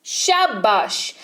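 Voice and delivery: slow, drawn-out praise; praising. Shown as a demonstration. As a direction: stretch it out like a proud teacher. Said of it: "शाबाशी देनी हो".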